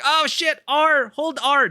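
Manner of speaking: high, loud panicked gamer outburst; mock panic. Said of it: "I'm gonna enjoy panic reloading".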